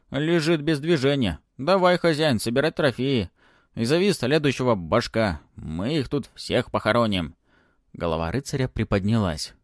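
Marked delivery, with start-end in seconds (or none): 0.1-7.3 high, loud dragon pronouncement; mock-wise little dragon. Dragon urges master. (голосок дракончика)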